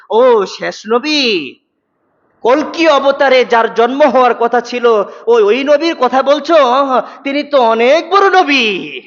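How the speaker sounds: drawn out and reverent, as if praising a great prophet; a lightly voiced neighbour answering slowly with awe; admiring Hindu neighbour. Voices an imagined Hindu's reply.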